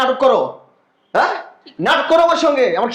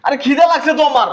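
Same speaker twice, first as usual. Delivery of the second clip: heated shouting; 4 semitones higher, 4 dB louder than usual. Acted. Brothers shouting at each other.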